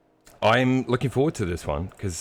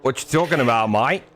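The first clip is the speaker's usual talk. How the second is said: put-on Australian accent; 5 semitones higher than usual. Teasing his co-commentator, hammy Australian accent. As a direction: lay on a bad Australian accent. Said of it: "your Australian accent is just terrible".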